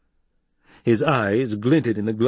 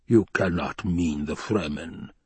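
slow, measured disbelief; disbelieving; 3 semitones lower, slower than usual. Acted. Baron doubts Hawat's recruits, slow disbelief. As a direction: weigh every word in doubt.

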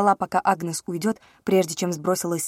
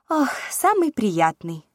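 chirpy, slow princess voice; cartoon princess; 4 semitones higher, slower than usual. A narrator's reading. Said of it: "прощебетала она".

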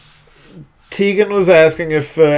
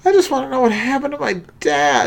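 higher, fast put-on Gabe voice; Gabe impression; 9 semitones higher, 3 dB quieter, much faster than usual. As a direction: redo the Gabe voice, higher and quicker. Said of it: "that's a little better".

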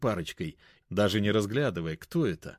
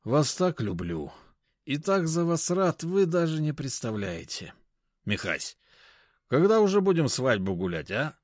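tipsy gushing; 5 semitones higher than usual. Acted. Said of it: "в пьяной улыбке".

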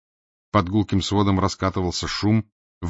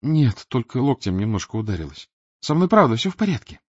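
put-on girl reassuring; 4 semitones higher than usual.

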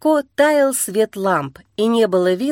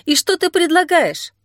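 indignant; 7 semitones higher than usual. A narrator's reading. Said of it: "возмутилась она".

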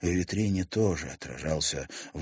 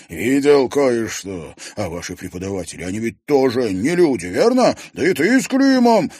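higher, louder frantic accusation; 5 semitones higher, 10 dB louder than usual. Acted. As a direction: press her hard, half mad.

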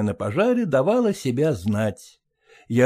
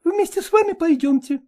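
high, quick, coquettish dog chatter; chattering lady dog. Acted. Ragulya excusing herself to Polkan, high quick chatter. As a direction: prattle on, pleased with yourself. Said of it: "согласилась она".

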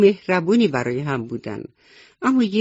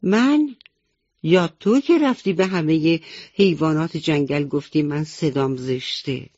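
raised voice. Acted. Chick answers the rabbit back with a raised voice. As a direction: raise your voice back at him. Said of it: "جوجه هم صداشو بالا برد".

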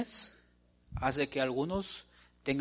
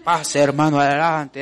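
loud ceremonial invitation; calling up front; 10 dB louder than usual. Acted. Preacher acting out inviting a brother forward, loud. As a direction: call him forward before everyone.

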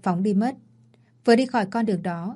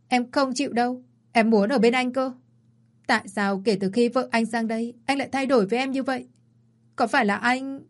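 higher, pouting whine; whiny and clingy; 4 semitones higher than usual. Acted. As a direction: plead like a spoiled fiancée. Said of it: "Vân bắt đầu nũng nịu". (giọng nũng nịu, cao hơn)

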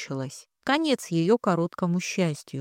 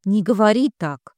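a louder, raised cry of protest; friend's blunt question drives a mother to shout; 3 semitones higher, 6 dB louder than usual. A narrator's reading. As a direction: cry out to stop her words. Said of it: "закричала Маша".

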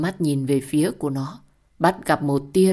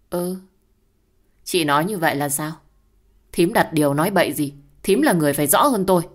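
defensive, getting loud and fast; indignant retort; 4 dB louder, faster than usual. Acted. Hoa retorts to the accusation.

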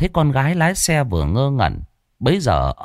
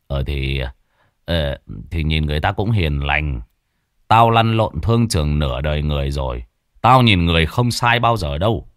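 put-on low, hesitant old father stammering; flustered father; 7 semitones lower than usual. A narrator's reading. Father fumbles for words answering his daughter, low and hesitant. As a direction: hem and haw like a caught-off-guard dad. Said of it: "ông vội vàng nói".

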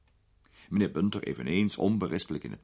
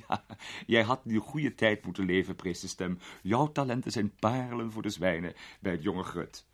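a hint of a grand old lady, amused; an elderly duchess teasing a young man; lightly voiced duchess, amused; 2 semitones higher than usual.

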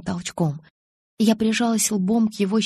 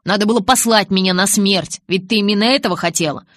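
louder, quick bitter jab; bitter Jacob; 7 dB louder than usual. A narrator's reading. Jacob bitterly accusing Bella, louder and fast. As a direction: throw it at her bitterly, fast.

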